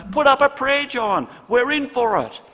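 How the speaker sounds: high, loud panicked yell for help; terrified shout. Retold or imitated. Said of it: "Terrified, one shouted".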